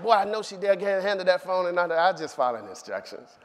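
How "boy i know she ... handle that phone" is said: high, loud scolding Faye; scolding neighbor. Retold or imitated. Neighbor Faye scolding young Puffy on the phone, loud and high. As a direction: bark it at the kid like a fed-up neighbor.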